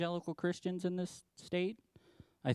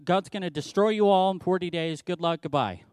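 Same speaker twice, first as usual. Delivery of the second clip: brusque dismissive; 2 semitones higher, 5 dB louder than usual. Retold or imitated. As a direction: toss it off like you couldn't care less. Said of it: "All he does is stomp in there and say".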